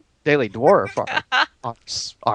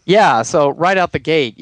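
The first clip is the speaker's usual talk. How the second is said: ordinary delivery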